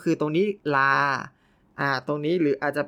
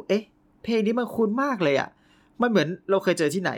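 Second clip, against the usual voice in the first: puzzled surprise; 5 semitones higher than usual. Retold or imitated. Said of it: "เรารู้สึก".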